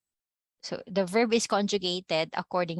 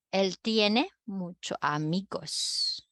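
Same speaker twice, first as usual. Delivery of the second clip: slow, spaced-out model sentence; slower than usual. Shown as a demonstration. Spanish teacher modeling a sentence for students to repeat, slowly.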